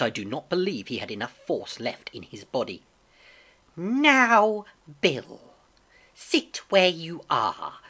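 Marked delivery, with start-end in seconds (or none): 3.8-7.8 loud, high drawn start, then slow order; commanding blind beggar. A narrator's reading. Beggar stops the captain rising, coldly commanding. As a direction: stretch it out, taking control.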